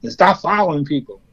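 lightly voiced teasing older brothers; mocking big brothers. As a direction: sneer at the crying kid like a big brother. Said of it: "they got no sympathy for me".

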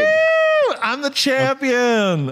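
high, drawn-out victory whoop; triumphant. Real, not acted. Celebrates winning the quiz answer.

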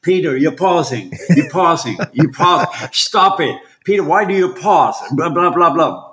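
half-shouted scolding, acted out in fun; retold mock yelling. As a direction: imitate an exasperated director yelling. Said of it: "he screamed at me".

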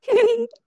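short, high, loud squeal. Acted. Host acts out the audience's carefree reaction, high squeal. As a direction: let out a quick high-pitched squeal.

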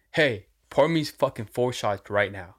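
slow, firm retold order; demanding. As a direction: imitate a man ordering, not asking. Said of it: "He just fucking demanded".

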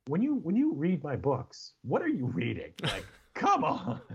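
drawn-out, high-pitched teasing rebuke; exasperated disbelief. Retold or imitated. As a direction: plead in comic exasperation, stretching the words. Teasing retort to wife, retold.

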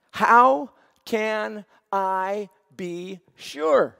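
slow, hushed, honest asking; sincere question. Shown as a demonstration. Abram asks God in faith, slow and sincere. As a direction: ask it from a heart that trusts. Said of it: "Same words, different heart".

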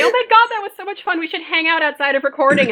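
high, quick burst of fake enthusiasm; mock gushing. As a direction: gush as if you really mean it, tongue in cheek. Acts out post-show gushing.

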